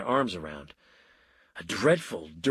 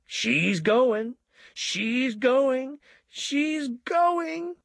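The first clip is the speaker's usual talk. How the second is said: rising higher with each She's going!; ecstatic cry; 14 semitones higher, much slower than usual. A narrator's reading. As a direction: cheer it on, climbing each time. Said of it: "the milkman cried ecstatically".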